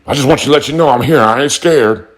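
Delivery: high, fast, whiny mock of the troll; mocking the loudmouth. Mocking a small-town troll who insists he is not scared, in a high fast whine. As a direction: squeak it out like a nervous loudmouth pretending to be brave.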